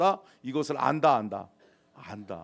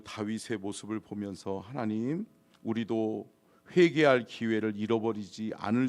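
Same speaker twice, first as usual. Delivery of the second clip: low, solemn petition; steady, reverent pulpit prayer; closing prayer; 4 semitones lower than usual. Real, not acted. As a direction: lead the congregation earnestly in prayer.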